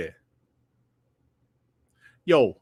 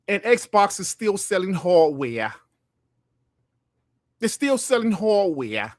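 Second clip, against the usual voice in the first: put-on slow, drawn-out New York accent; slower than usual. Streamer imitating New Yorkers on Xbox hardware, in a slow New York accent. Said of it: "as the New Yorkers would say".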